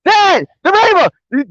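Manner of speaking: put-on high, drawn-out excited child's call; imitating flipped-out kid. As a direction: mimic an awestruck boy calling Dad, slowly stretched. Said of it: "we were flipping out".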